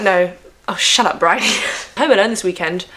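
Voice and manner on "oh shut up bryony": mock telling herself off; self-scolding. Real, not acted. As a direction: snap at yourself, half laughing. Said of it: "I literally tell myself to shut up".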